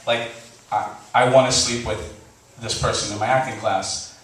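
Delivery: low and careful, asking permission; earnest quiet confession. Retold or imitated. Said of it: "I'm like".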